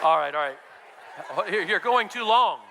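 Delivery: laughing through the words. Real, not acted. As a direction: chuckle as the joke runs long. Congregation laughing at exercise.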